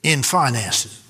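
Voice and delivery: slow and deliberate for note-taking; slow dictation. Shown as a demonstration. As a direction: spell it out word by word. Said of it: "Write that down".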